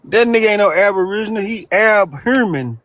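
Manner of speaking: put-on Baltimore accent. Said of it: "You don't even say that shit right".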